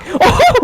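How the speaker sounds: sudden high disbelieving laugh; burst of laughter. Real, not acted. Goal against the odds.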